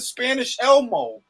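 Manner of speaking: giggling repeat; laughing. Real, not acted. Laughing at Elmo comparison.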